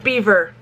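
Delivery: Belvoir pronounced exactly like "beaver"; British pronunciation. Shown as a demonstration. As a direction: say Belvoir as BEE-ver. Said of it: "They never pronounce it the way".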